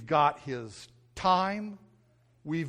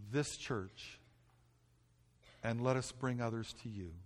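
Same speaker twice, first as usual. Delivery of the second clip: earnest prayer. Real, not acted. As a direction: pray aloud for the whole church, ending in a hushed plea. Leads congregation in prayer.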